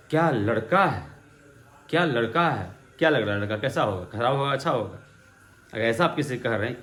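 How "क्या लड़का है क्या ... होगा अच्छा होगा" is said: questioning tone. Shown as a demonstration. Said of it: "मान लीजिए आप कह रहे हैं किसी को".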